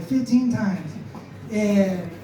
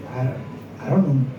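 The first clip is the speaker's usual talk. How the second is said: put-on scared kid; 8 semitones lower than usual. Nervous kid on the phone.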